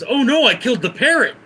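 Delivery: high, loud alarmed cry; guy thinking he killed the parrot; horrified. Acted. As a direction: gasp it out in mock horror.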